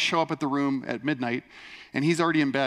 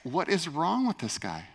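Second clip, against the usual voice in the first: mock perplexed; 3 dB quieter than usual. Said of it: "perplexed look".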